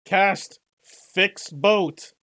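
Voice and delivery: very loud, high shouted incantation; battle-cry spell. Acted. Surge shouting a spell at Lynx, battle cry. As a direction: yell the spell like an anime attack.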